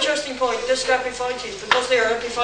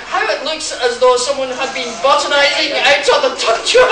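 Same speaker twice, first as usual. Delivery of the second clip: put-on Scottish accent; 3 semitones higher, 7 dB louder than usual. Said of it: "talks with a terrible accent".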